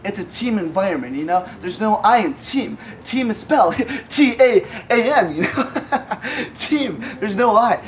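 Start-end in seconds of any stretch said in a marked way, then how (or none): 3.1-6.6 laughing. Acted. Joke spelling while laughing.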